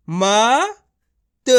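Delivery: मत as two separate, held sounds, म then त; letter by letter. Shown as a demonstration. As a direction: sound out मत one letter at a time with a gap. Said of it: "एक एक अक्षर का उच्चारण करके".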